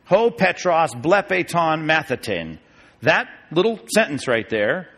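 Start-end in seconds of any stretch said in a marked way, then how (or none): 0.1-2.6 "Ho Petros blepeton mathetin" sounded out slowly, word by word; slow careful Greek reading. Shown as a demonstration. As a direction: read the Greek carefully for the class. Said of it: "I gotta show you this".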